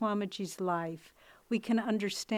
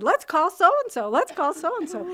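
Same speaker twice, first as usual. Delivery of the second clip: eager suggestion; 9 semitones higher, 9 dB louder than usual. Retold or imitated. Retelling own eager suggestion.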